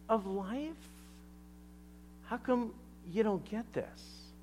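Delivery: mildly incredulous questioning, lifting at the ends; a little calloused. Retold or imitated. Jesus questions the respected teacher Nicodemus, a touch calloused. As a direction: needle him lightly with each question. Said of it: "he's a little calloused".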